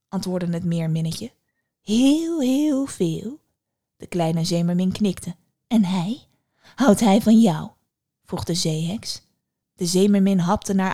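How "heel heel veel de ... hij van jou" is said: teasing hag. A narrator's reading. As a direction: tease her lovesick answer. Witch teases. (plagende heks)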